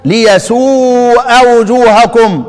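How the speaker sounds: slow, drawn-out Quran recitation of ليسوء with long vowels; recited reading. Shown as a demonstration. Teacher demonstrating a reading to students, slow recitation. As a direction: chant ليسوء وجوهكم slowly as a teacher's model. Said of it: "مش كده؟".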